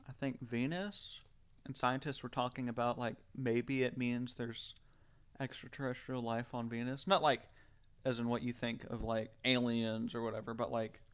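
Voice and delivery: talking while chewing gum; words around a wad of gum. Real, not acted. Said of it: "I'm chewing gum right now, so I sound kinda weird".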